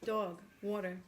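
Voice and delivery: drawn-out New York vowels; New York accent. Shown as a demonstration. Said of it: "Where's your New York accent?".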